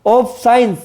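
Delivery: slow, measured "of science", marking each syllable's weight; syllable stress demo. Shown as a demonstration. Teacher scanning the poem's meter, slow syllable stress on "of science". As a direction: sound out "of science" slowly, beat by beat. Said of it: "इन पर आपको कम जोर".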